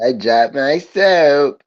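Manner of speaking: slow, lightly put-on voice; mock dropped-soap victim. Bringing back the jail soap joke, slow mock voice. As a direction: stretch the words in mild mock dismay.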